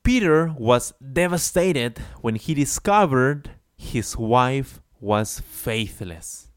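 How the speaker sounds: slow read, "wife was faithless" drawn out; slow model sentence; slow example read. Shown as a demonstration. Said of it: "let's see an example".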